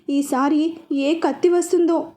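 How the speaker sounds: slow, hesitant worry; a touch of dread, slowly; mildly scared, slow; fearful. Acted. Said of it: "అని భయపడుతూ".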